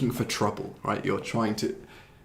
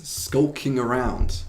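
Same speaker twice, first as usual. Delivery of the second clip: slow; 2 semitones higher, much slower than usual. Shown as a demonstration.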